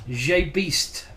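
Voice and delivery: put-on name said with a French accent. Streamer playfully reads a chat member's name, French accent. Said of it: "putting a French accent on your name".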